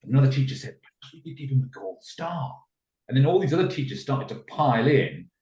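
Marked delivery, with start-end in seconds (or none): 0.8-2.6 high, softened eager suggestion; playing along. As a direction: act a teacher adding to the praise. Another teacher joins the praise.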